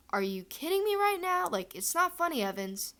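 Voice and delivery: can't believe it's real; mock-suspicious disbelief at a prank; incredulous. James suspects a prank.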